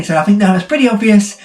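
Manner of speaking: ordinary talk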